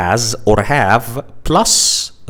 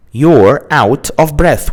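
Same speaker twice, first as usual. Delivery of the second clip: slow explanatory; 4 dB louder than usual. Shown as a demonstration. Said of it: "which means that you cannot catch your breath".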